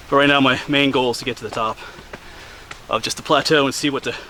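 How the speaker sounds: winded from the steep climb; panting between words; out of breath. Real, not acted. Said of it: "sorry, I'm out of breath".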